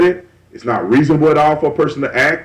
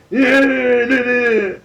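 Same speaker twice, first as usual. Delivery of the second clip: higher, slow angry man voice; raged-up man; 10 semitones higher, much slower than usual. Retold or imitated. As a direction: act out a man all raged up. Imitating raged-up man at door.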